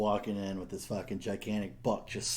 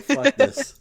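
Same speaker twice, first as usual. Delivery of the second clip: high, loud fed-up outburst; hammed-up exasperated cry; mock exasperation; 9 dB louder than usual. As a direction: blurt it out as if totally done. Retold fed-up reaction to picture.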